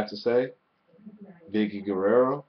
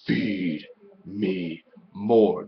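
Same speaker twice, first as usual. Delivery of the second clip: mock Ryback; 2 semitones lower, much slower than usual. Quoting Ryback's catchphrase.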